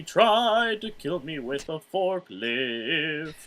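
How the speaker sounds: slow, laughing through the words; giggling while telling. Real, not acted. Laughing at his own joke.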